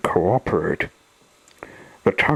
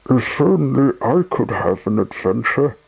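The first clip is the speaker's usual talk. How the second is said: longing, higher-pitched wish; wistful sigh; 5 semitones higher than usual. A narrator's reading. Bored Sunshine longs for adventure, wistfully. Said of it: "he sighed".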